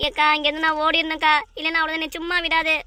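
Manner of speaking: urgent, a touch of fear; scared. Acted. Debtor wanting to run from her creditor, mildly panicky. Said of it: "ஏன்டி பயப்படுற".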